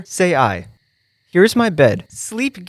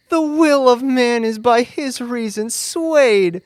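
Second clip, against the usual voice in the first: rapturous; 4 semitones higher than usual. Acted. Lysander suddenly infatuated, rapturous.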